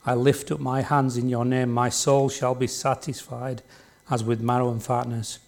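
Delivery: solemn Bible reading to the congregation; scripture reading. Acted. Preacher reading a psalm aloud to the church, solemn. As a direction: read each phrase as a prayer.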